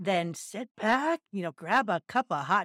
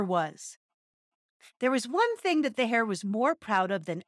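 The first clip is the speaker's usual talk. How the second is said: story narration. A narrator's reading. Reads a fable aloud.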